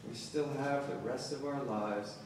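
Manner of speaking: measured elegy recital with weighted pauses; poetry reading. Acted. Poet reading an elegy for a broken woman to an audience, poetry reading. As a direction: read it as a solemn poem, phrase by phrase.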